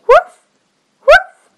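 high, loud little puppy yips; high puppy bark. Acted. Puppy barks in story.

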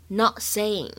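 "not saying" with the T in "not" held, unreleased. Shown as a demonstration. Teacher shows learners the incomplete plosive, "not saying" with silent T release. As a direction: stop the T of "not" and go straight into "saying". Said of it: "有一个不完全失去爆破".

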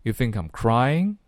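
weak "I'm", heavier rising "crying"; touch "I'm" lightly, land on "crying"; light I, stressed CRY. Shown as a demonstration. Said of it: "肯定没有cry读得重".

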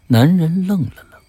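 plain reading voice

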